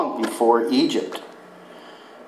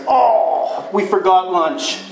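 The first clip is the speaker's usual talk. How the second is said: sudden realization; 3 semitones higher than usual. Retold or imitated. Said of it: "the boys suddenly realize".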